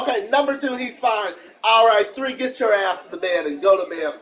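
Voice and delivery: loud, high-pitched acted telling-off; retold parental scolding. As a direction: play the parent ordering a child to bed. Acts out scolding son to bed.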